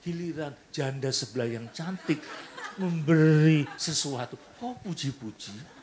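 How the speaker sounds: high, loud shriek of a jealous wife with a laugh; wife's mock yell. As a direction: yell it at the husband like an offended wife. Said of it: "Si istri tiba-tiba teriak". (teriakan istri yang cemburu, setengah bercanda)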